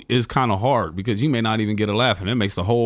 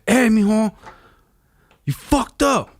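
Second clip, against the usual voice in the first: high, louder scolding mom; 10 semitones higher, 4 dB louder than usual. Retold or imitated. Parents confronting their son over the letter, high scolding voice. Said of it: "you gotta do the, the, the voices".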